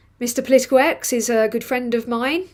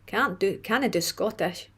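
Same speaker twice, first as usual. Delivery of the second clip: put-on Scottish-accented aside, softer; attempted Scottish accent; 4 dB quieter than usual. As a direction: try the words in a Scottish accent. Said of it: "me attempting to do Scottish".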